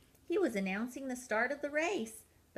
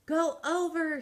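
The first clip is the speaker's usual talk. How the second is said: raised, higher call to go over; coach's shout; 8 semitones higher, 7 dB louder than usual. Acted. Coach Peg shouts to the penguin at the hurdle. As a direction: bark the order like a ski coach. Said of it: "shouted Peg".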